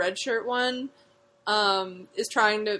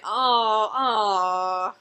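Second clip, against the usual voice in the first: mock crying; 4 dB louder than usual. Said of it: "now I read it and I'm like".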